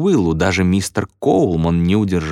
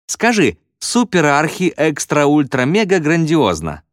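high, drawn-out shout from the crowd; raised, stretched-out cry; calling out; 8 semitones higher, slower than usual. A narrator's reading. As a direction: shout the dare slowly, pitched high. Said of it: "крикнул ещё кто-то".

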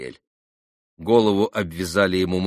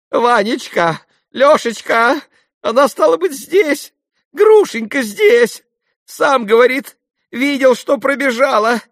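very high, loud, breathless babble; choking with excitement; 8 dB louder than usual. A narrator's reading. Father babbling to his sons, very high and frantic. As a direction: gasp it out in a frenzy. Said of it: "Он захлёбывался".

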